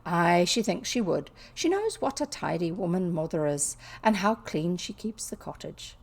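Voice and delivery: lightly attempted Yorkshire dialect reading. Maid reassures the girl about her mother, lightly attempted Yorkshire. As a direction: read with a rough, lilting Yorkshire attempt. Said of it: "I know it's not a Yorkshire accent".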